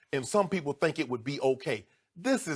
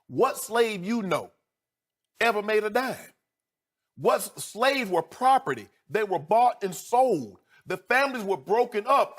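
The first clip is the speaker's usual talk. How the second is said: righteous anger; 6 semitones higher, 5 dB louder than usual. Real, not acted. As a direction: hammer home every fact. Furious rant about slavery.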